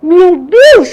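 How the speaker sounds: loud, high cry of amazement; gasp, then cry out at full voice; re-enacted shouting. Woman alone in her room after hearing God, amazed shout. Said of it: "eu comecei a gritar dentro do quarto".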